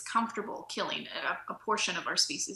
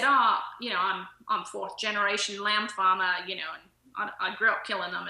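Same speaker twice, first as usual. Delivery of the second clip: lightly put-on Australian accent; 4 dB louder than usual. Fourth generation lamb farmer answering the speaker, imitated Australian accent. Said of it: "in my Australian accent".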